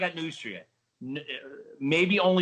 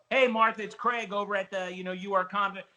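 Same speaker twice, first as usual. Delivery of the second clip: confident phone pitch; 5 semitones higher than usual. Acted. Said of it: "the guy didn't talk like this".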